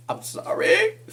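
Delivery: sorry dissolving into giggles; real laughter through the words; laughing apology. Real, not acted. Laughing at own joke.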